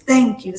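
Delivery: "thank you" with the tongue pushed against the teeth on TH; "thank you" with a demonstrated dental TH, tongue out. Shown as a demonstration. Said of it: "sacando la lengua, pu-, empujando los dientes".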